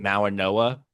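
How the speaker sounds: "Mawanoa" with an N sound; common pronunciation. Shown as a demonstration. Host reporting how content creators say the name, "Mawanoa" with N. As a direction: say "Mawanoa" with N before the final "oa". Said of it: "content-wise pronounced as his name".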